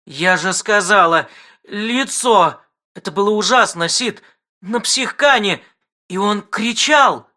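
high, distraught outburst; hysterical. Acted. Wife describes the face to Sid, high and upset. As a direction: pour it out in hysteria. Жена в истерике.

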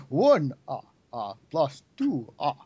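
Sesame Street vampire counting. Acted. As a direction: count with a staccato villain's laugh between numbers. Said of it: "I'm thinking the Count".

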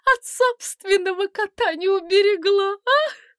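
high laughing lament; laughing exclaim. Acted. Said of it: "Глафира вдруг засмеялась". (смеясь, высоким голосом)

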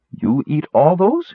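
slow, high-pitched amazed question; wide-eyed amazement. A narrator's reading. Chervy to Sturm about the raisins, wide-eyed. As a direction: stretch it out and lift it high in wonder. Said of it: "she said, wide-eyed".

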